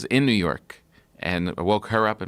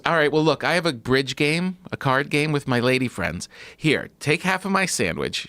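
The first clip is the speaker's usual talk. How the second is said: imitating Nana; 5 semitones higher than usual. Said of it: "And she goes".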